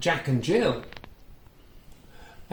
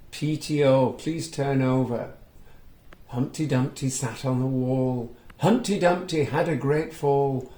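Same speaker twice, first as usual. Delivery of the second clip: put-on reading to children. A narrator's reading. Reading a picture book aloud to young children, lively storytelling. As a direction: bring the story alive for little listeners. Reads letter and rhyme.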